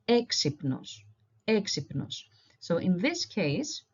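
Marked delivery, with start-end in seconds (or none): 0.1-2.2 "exipnos" said carefully, stressed on the first e; Greek pronunciation demo. Shown as a demonstration. Teacher showing learners where we stress it, careful Greek pronunciation. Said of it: "So this would be".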